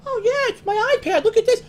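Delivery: high, far mock voice of a boastful gadget owner; mock prissy show-off voice. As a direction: sneer at the iPad crowd in a prissy voice. Mocking modern laptop owners.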